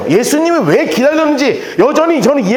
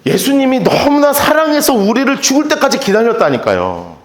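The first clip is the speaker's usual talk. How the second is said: normal talking voice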